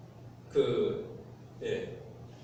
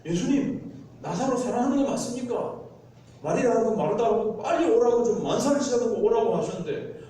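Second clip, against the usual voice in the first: higher and louder, heated protest; angry complaint; 5 semitones higher, 4 dB louder than usual. Retold or imitated. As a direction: blow up at the teacher for dawdling. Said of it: "우리는 막 화를 내실 거예요". (제자들이 예수께 화내며 따지듯)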